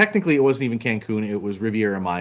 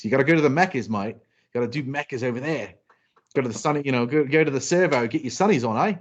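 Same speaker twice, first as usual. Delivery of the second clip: put-on Australian accent; faster than usual. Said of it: "I did an Australian accent".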